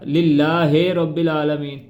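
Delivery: للہ with a long ے sound, slowed; wrong pronunciation. Shown as a demonstration. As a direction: demo the mistake: a long ے vowel after للہ. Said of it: "اس طرح نہیں پڑھنا اس کو".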